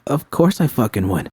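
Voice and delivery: a hint of Judy's trembling devotion; Judy, tearful love.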